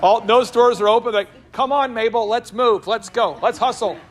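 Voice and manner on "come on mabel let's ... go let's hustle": hustling mall walker, raised pitch; lightly acted mall power walker; urgent speed walker. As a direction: urge your walking partner along.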